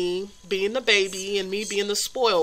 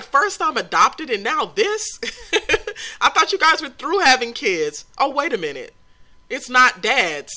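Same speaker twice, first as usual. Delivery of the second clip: higher, louder laughing mock son voice; voicing the son; 5 semitones higher, 3 dB louder than usual. Gamer voices upset son over new baby, laughing. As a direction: play the grumpy son while laughing. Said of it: "He's like".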